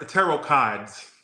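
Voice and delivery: slow mock Boston pronunciation; Boston accent. Tarot reader mimicking Boston talk, slow Boston accent. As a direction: draw it out like a Bostonian. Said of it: "Oh, I love that accent".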